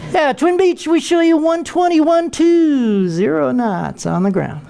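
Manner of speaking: high, smooth sing-song air traffic controller readout; calm controller voice. Retold or imitated. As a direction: croon the speed like every controller does. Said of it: "talk to him like he's Air Force One".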